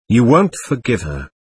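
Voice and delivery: a hint of frantic reproach, lightly voiced. Mitya reproaching Grushenka for refusing, understated frantic reproach. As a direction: throw the blame at her, half restrained. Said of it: "cried Mitya, with frantic reproach".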